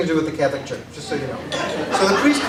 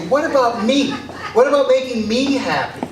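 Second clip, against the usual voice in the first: mild retold snap, a bit higher; imitating his outburst, raised a little; snapping; 5 semitones higher than usual. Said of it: "And then I snap".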